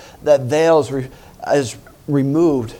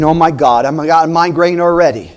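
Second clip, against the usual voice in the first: mock devil groan; 5 dB louder than usual. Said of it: "the devil ought to be saying".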